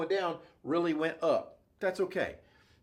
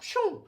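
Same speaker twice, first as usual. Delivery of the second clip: slicing sound effect. Shown as a demonstration.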